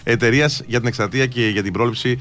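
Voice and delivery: steady, low-pitched radio ad read. Acted. Radio host reads sponsor messages to listeners, ad read.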